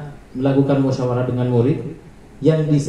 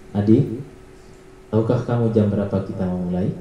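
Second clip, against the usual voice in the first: flat monitoring tone; 5 semitones lower, 3 dB quieter than usual. Shown as a demonstration. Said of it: "nada suara datar".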